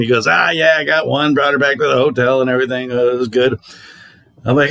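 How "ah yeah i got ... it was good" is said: put-on Boston accent. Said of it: "He's got this Boston accent that's great".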